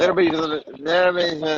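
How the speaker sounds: words running together after tequila; slurred speech. Real, not acted. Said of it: "whether you're tired or on the tequila".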